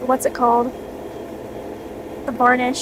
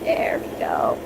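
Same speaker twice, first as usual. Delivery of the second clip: whispering; 6 dB quieter, slower than usual. Real, not acted. Whispered satisfaction.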